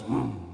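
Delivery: low hummed car sound; car engine noise. Retold or imitated. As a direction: hum like a car pulling up. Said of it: "a car goes".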